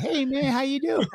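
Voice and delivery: put-on very high, light boyish greeting; lightest voice. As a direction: pitch it way up like a kid whose voice hasn't broken. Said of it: "like, the lightest voice".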